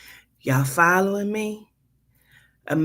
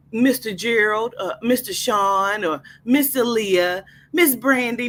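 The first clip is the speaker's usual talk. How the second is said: condescending clerk; 4 semitones higher than usual. Acted.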